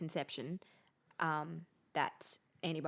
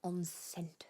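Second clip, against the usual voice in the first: whisper. Real, not acted. Echoing the word whispered.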